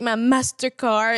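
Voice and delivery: "Mastercard" said with an attempted English accent. Shown as a demonstration. Showing what she can't say as herself, English accent on "Mastercard". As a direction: switch to English sounds on "Mastercard". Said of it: "l'accent anglais".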